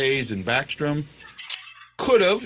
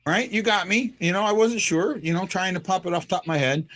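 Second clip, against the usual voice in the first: high, pleading whine; whining voice; 5 semitones higher than usual. Acted. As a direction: whine like a scolded kid. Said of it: "Whining voice".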